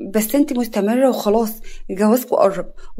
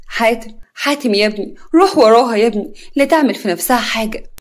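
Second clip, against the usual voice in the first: fearful; 4 dB louder than usual. Acted. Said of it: "نجوى بخوف".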